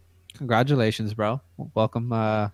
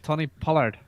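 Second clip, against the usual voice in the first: higher-pitched, tentative stab at Scottish; attempted Scottish accent; 4 semitones higher than usual. Shown as a demonstration. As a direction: try a Scottish accent, not convincingly. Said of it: "say it in an accent".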